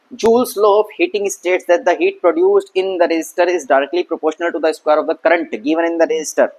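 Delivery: slow, measured textbook recital; a teacher dictating a definition; reciting a definition. Shown as a demonstration. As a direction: read the law out slowly and clearly. Reads the law aloud.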